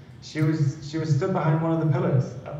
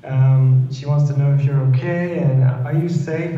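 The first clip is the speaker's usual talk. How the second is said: retold sobbing plea; 4 semitones higher than usual. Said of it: "I was bawling my eyes saying".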